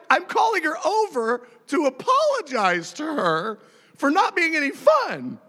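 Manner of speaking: high-pitched aggrieved whine; mock indignation. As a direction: protest high at the unfairness. Acted indignant complaint after kick.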